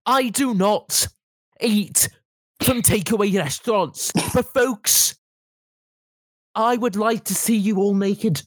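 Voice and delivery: high, slow teacher voice with pauses; drawn-out pauses like a pompous teacher; Mr Liddell impression. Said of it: "we should deep fake Mister Liddell".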